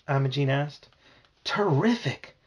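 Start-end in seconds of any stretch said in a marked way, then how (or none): 1.4-2.3 talking through a mouthful of pie; words muffled by a full mouth. Acted. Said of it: "I said with a full mouth".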